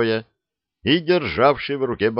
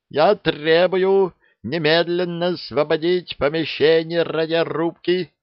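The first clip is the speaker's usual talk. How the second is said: shout; 8 semitones higher than usual. A narrator's reading. Lieutenant demands the press leave the radio room, shouting. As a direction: bark the order to clear the room. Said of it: "— крикнул он".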